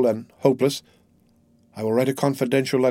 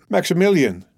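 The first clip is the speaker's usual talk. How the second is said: raised, imploring cry of his name; higher-pitched, anguished plea; pleading; 7 semitones higher, 3 dB louder than usual. A narrator's reading. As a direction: call out to your beloved, begging. Kneels, pleading with her beloved.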